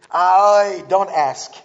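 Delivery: loud, slow words through real laughter; laughing at punchline. Real, not acted. Preacher laughing loudly at his own punchline. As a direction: crack up at your own joke.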